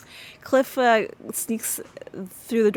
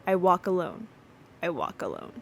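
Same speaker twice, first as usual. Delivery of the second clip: gloomy poem recital. Retold or imitated. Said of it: "she reads out the, the poem".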